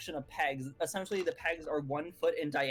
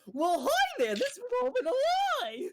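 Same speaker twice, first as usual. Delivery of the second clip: very high, loud, swooping character voice; 5 dB louder than usual. During a game session, a player voices the returning character: Mad Hatter voice. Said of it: "it's very funny that I can use that voice".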